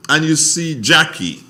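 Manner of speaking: high, loud greeting shout; yelling across the room. Real, not acted. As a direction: call it out to someone far away. Greets brother in another room.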